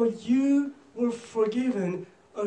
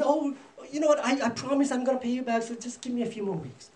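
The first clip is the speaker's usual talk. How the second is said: higher-pitched acted begging; pleading; 5 semitones higher than usual. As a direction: play the friend asking for mercy. Friend begs for more time.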